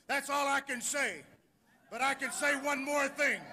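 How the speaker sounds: upset wrestling promo. Real, not acted. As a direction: protest the crowd in a high, agitated voice. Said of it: "I'm visibly upset".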